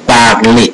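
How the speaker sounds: "parler" said as "par-lay"; French "parler", no final R; French E like "may". Shown as a demonstration. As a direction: end "parler" on an "ay" vowel. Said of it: "So it sound like a may".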